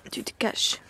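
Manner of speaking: hushed, gentle reassurance. Real, not acted. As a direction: whisper soothingly to a mare. Chuchote à la jument. (murmure doux à la jument)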